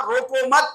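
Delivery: "روکو مت" held together, then a stop; pause after "مت". Shown as a demonstration. Preacher repeating where he paused, stop after "مت". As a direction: run "روکو" into "مت" and halt there. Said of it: "یہاں وقف کیا".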